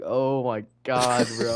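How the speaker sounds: slow, giggly oh my God; stretched out through laughter; half-laughing at the teacher's stare; laughing disbelief. Retold or imitated. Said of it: "I was just like".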